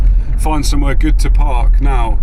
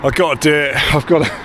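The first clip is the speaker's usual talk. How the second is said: out of breath after climbing a hill; panting between words, out of breath. Real, not acted. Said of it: "I'm so out of breath".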